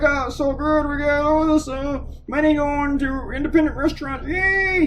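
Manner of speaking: high, gushing parody of a politician; mocking Roger Wicker. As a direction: lampoon a smug senator taking credit. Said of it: "He's like".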